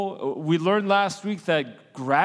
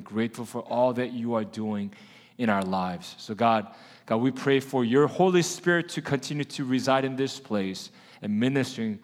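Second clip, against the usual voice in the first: prayer; 3 semitones lower than usual. Acted. Pastor leads a prayer.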